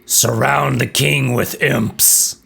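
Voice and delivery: slow, drawn-out voice of a speaking reflection; mirror reflection voice. Acted. Game master voices the player's reflection in the mirror, slow intoning. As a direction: intone it slowly, like an enchanted mirror. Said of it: "your own reflection in the mirror speaks".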